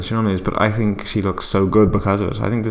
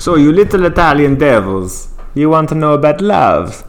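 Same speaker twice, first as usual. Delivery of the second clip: higher, louder quoted movie line; film character's line; 6 semitones higher, 6 dB louder than usual. Retold or imitated. Answering what a singer's only line is, theatrical quote. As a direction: declaim it like the character onscreen. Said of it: "What's her line?".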